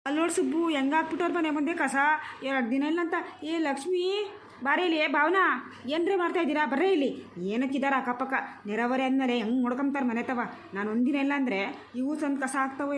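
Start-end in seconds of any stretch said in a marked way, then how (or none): 3.5-7.1 raised, higher call across the street. Acted. Woman back home calls the neighbours out over the rubbish, calling out higher. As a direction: summon the neighbours out, pitch up.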